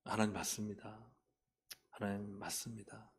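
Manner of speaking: soft, subdued surrender; hushed retold prayer of yielding; submissive admission. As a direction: give in quietly, conceding to God. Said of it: "제가 말씀에 굴복했어요".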